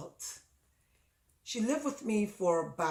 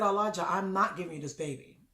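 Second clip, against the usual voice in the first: firm protest; 2 semitones higher than usual. Retold or imitated. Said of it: "in my room and I said".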